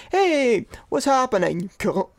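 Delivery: put-on casual stab at a New Zealand accent; friendly, non-derogatory greeting in shaky New Zealand dialect; attempted New Zealand accent. Host imitating Butcher from The Boys, attempted New Zealand accent. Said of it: "he says it in, like, not, like, a de-, derogatory way".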